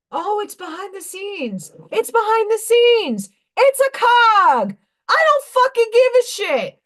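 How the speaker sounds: high, loud mocking voice; sneering high parody of them. Mocking others' excuses.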